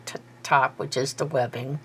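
talking around a pin in the mouth; words muffled by a pin held in the lips. Real, not acted. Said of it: "Sorry, I have a pin in my mouth".

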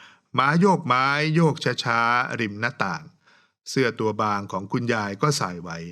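slow, measured reading of verse; poem recitation. Retold or imitated. Host reading a student's winning poem aloud, slow recitation. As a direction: savour each line like a recited poem. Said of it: "เปิดฉากมาด้วยคำบอกว่า".

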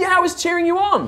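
put-on hyped-up teen supporter; high, eager exclamation; Vala. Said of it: "super hyped up teenager".

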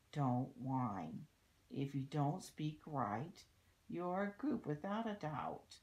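put-on lilting story verse for children; read-aloud rhyme. A narrator's reading. Reading a rhyme about littering to children, storybook read-aloud. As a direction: read the verse out clearly, in measured phrases. Reads a rhyming book aloud.

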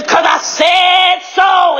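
high, drawn-out declaration; yelling. Real, not acted. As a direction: yell it slowly, every word stretched. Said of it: "me yelling".

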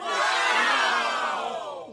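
loud breathy wow; amazed wow. Acted. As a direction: gasp out a big wow. Host exclaims at forest.

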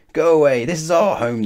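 high, loud squirrel scream. A narrator's reading. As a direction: shriek them off your tree. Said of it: "the squirrels screamed".

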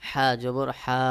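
হা জবর হা with the vowels stretched out; slow drawled recitation shown as the error; drawn-out wrong reading. Shown as a demonstration. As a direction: demo the mistake by dragging each syllable. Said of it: "এইভাবে যদি টান দিয়ে পড়েন তাহলে কিন্তু আপনার পড়ার প্রথমেই ভুল হয়ে যাবে".

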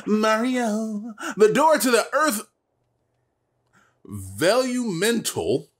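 frantic NPC. Acted. Voicing frantic Toad dialogue.

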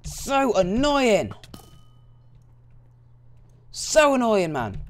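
slow, high, drawn-out frustration; exasperated groan. Real, not acted. Gamer groaning at the annoying game, slow and high. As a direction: drag it out, fed up.

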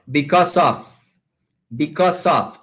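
"because of" joined as "becau-sof"; linking words. Shown as a demonstration. Teacher showing the trick, "because of" linked as one. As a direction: glide the S of "because" into "of". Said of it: "ese sonido S de because, lo unimos".

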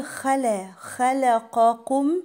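"خلقكم" with heavy خ and ق, light "la"; thin middle lam. Shown as a demonstration. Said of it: "وحرف اللام اللي في النص ده مرقق".

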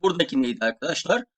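normal talking voice

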